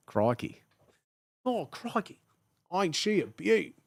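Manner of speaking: hammed-up Australian wildlife host; broad mock-Australian; Australian accent. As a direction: talk like an Australian creeping up on an animal. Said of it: "How to be Australian".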